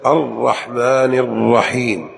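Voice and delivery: الرحمن الرحيم slow with two held ر sounds; geminated ra in both words of الرحمن الرحيم; doubled ra. Shown as a demonstration. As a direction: lean on each ر in الرحمن الرحيم. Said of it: "الأولى والثانية".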